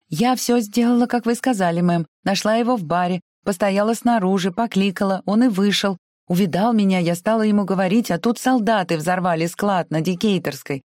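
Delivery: put-on high, breathless servant girl telling; frightened maid voice. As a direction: rattle it off in a nervous rush. Prissy retelling events.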